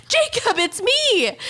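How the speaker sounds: slow, drawn-out call; calling through glass. Retold or imitated. Sister calling slowly to scared brother through window. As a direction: say it slowly so he can read it. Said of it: "And I'm like".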